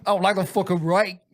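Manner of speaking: put-on grumble; hammed-up complaint; mock grumpy voice. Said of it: "you're like".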